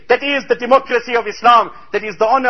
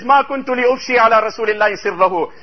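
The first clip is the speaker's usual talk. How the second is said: fast Arabic recitation; much faster than usual. Real, not acted. Hadith quoted in Arabic.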